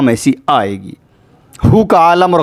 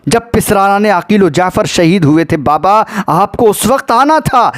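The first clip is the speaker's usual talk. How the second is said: anguished reproach; 5 semitones higher than usual. Acted. Zainab reproaches her father in lament.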